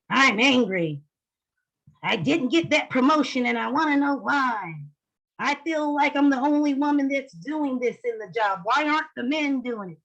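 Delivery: acted indignant complaint, pitch climbing; mock angry tirade of mild heat. Shown as a demonstration. Teacher playing a woman passed over for promotion, angry. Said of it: "face of anger".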